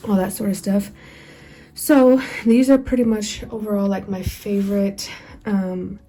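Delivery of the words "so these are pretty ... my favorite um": out of breath. Real, not acted. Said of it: "I have to catch my breath".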